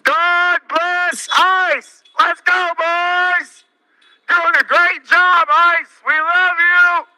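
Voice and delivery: frat bro. Acted. Mocking cheers through a megaphone.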